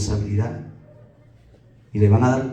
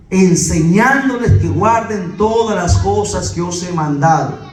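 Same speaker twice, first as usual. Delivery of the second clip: slow, raised preacher's quotation; measured, higher-pitched verse delivery; emphatic scripture quote; 4 semitones higher than usual. Real, not acted. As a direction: spell out the command slowly. Quoting scripture emphatically to congregation.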